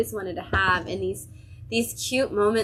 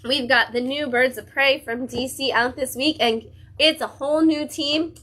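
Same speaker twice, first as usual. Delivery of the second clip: higher and louder, real fan excitement; excited; 4 semitones higher, 4 dB louder than usual. Real, not acted. Reviewer announces her favourite team's return, thrilled and louder. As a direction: gush about your favourite team coming back. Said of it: "I'm so excited".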